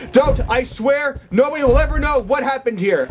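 high, earnest begging; real scared promise; frightened pleading. Real, not acted. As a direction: swear it desperately. Pleads again.

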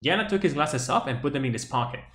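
careful, unhurried repeat. Shown as a demonstration. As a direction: ease off the speed so each word lands. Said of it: "decirlo de una manera un poquito más lenta". (un poco más lento y claro)

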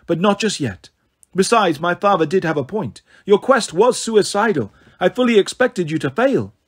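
lightly voiced cool villainess, lilting; a hint of a scornful goddess; disdainful snow goddess. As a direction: explain it with airy disdain.

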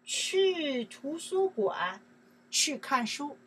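去图书馆 drawn out slowly, every syllable separate; slow demo. Shown as a demonstration. Teacher showing students the sentence, slow and deliberate. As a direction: spell it out slowly for the class. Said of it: "You see here?".

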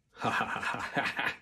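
acted run of ha-ha laughs; mocking laughter. A narrator's reading. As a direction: laugh along like a gang of boys. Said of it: "laughed all the other boys".

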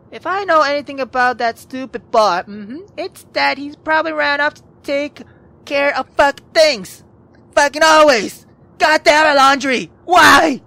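building from grumble to frustrated shouts; cursing, fed up and worried; exasperated anger. Acted. Frustrated outburst about Laundry.

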